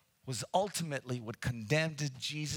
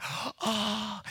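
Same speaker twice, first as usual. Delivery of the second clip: gasp; 6 semitones higher than usual. Retold or imitated. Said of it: "everybody would have went".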